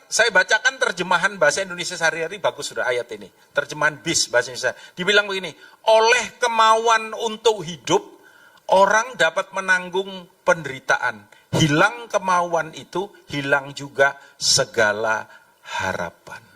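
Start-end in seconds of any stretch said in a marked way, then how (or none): 5.9-16.5 slow, weighted reading with pauses between phrases; slow verse reading. Real, not acted. Preacher reads scripture to congregation, slow and deliberate. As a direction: read the verse deliberately, letting each phrase land.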